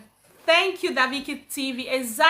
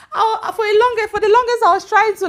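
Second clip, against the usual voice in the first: laughing; 7 semitones higher, 7 dB louder than usual. Real, not acted. Laughing while telling her start.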